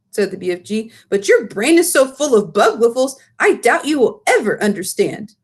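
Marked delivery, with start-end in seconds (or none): 1.1-5.4 a hint of giant teasing; mildly mocking giant; lightly voiced giant. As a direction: BFG doubting Sophie, lightly voiced. Giant teases Sophie.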